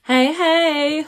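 high, loud, flat hey hey; dead inside greeting. Real, not acted. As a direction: greet with no enthusiasm at all. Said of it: "really dead inside".

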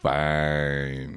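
low, dismissive "Fine."; a grudging, lukewarm "Fine."; unenthusiastic fine. Pretend. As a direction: say "Fine." like the meal was only so-so. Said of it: "if you say it like that".

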